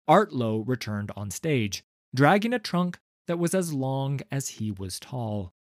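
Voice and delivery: plain reading voice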